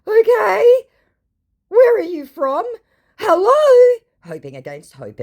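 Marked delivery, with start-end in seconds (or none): 0.1-4.0 much higher, louder mock scammer; pushy, impatient scammer. Scammer dodging the vlogger's questions, high mock voice. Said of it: "To which he goes".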